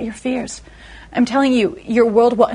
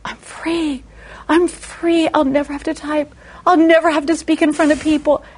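giddy relief; 5 semitones higher than usual. Retold or imitated.

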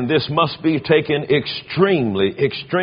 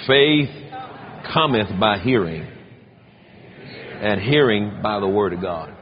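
reading scripture; 5 semitones lower than usual. Shown as a demonstration. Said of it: "Let's read seventeen out loud together".

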